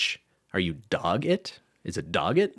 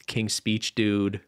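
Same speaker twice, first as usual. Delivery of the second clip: ordinary delivery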